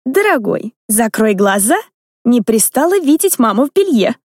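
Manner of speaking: lightly lecturing mother voice; mentoring tone. Acted. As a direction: instruct him like a prim governess. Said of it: "менторским тоном проговорила".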